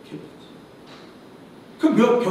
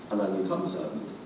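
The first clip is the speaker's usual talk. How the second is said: much lower, soft thanks; hushed prayer; 12 semitones lower, 8 dB quieter than usual. Retold or imitated. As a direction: murmur the thanks under the breath. Parents' forced prayer. (낮게 속삭이는 감사 기도)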